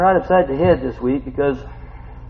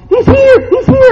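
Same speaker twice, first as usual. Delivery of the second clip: high, loud announcing cry; excited calling out; 13 dB louder, slower than usual. Retold or imitated. Coworker announcing the preacher's arrival, high and loud. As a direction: call out gleefully to the room.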